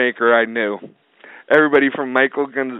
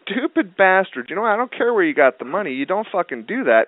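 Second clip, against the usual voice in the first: retold angry retort; 8 semitones higher than usual. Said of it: "And I'm like".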